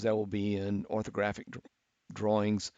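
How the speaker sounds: speaking through hiccups; hiccuping mid-sentence. Real, not acted. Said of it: "I got the hiccups".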